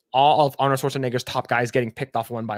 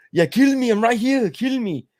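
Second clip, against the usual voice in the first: mock plea; 9 semitones higher, 3 dB louder than usual. Pleading after a cancelled sequel.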